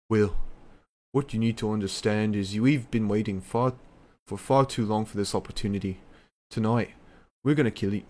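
put-on a half-hearted British Pac accent; lightly put-on British Pac menace. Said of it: "I can't do a, a good, uh, Pac accent, a Pac impression... I'll try my best".

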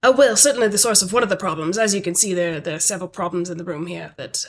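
lightly British manager voice; British accent. Acted. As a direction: slip into a slight British accent. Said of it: "I don't know why I'm suddenly British".

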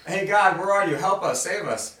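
a hammed-up cry for help; mock plea to God. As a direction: wail it like a desperate crowd. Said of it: "and they say".

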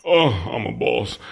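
talking while winded; out of breath. Real, not acted. Player boasting to the group that he's a boss, out of breath. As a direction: puff through the boast. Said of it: "why I'm out of breath".

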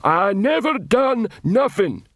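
a guilty troll insisting on innocence; defensive troll. Acted. Troll recruit protesting to the captain.

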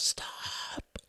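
urgent breathy whisper. A narrator's reading. Ruth stopping her son mid-sentence, whispered. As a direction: hush him with a whisper. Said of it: "Ruth whispered".

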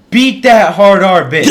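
loud, slow heckle from a crowd; high, full-volume retold shout; imitated yell. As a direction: yell it out like someone egging on a fight. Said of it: "Some dude yells".

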